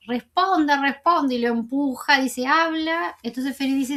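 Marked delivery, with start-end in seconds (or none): 0.1-1.4 higher, insistent demand without a full shout; mock yelling, demanding an answer; mild retold yell. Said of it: "Entonces ahí le grita". 2.5-3.2 higher-pitched, short demand; half-voiced shout ordering someone to talk; mild retold yell. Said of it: "Entonces ahí le grita".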